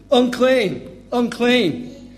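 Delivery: high, loud warning cry of unclean; a leper's cry of unclean, high and loud; shouting unclean. Retold or imitated. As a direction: call out unclean as a warning from afar. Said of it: "you had to shout".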